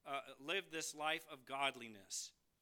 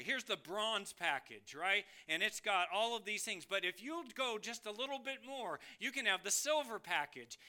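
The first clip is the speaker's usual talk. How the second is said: salesman pitch; 4 semitones higher, 3 dB louder than usual. Acted. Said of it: "had a salesman come".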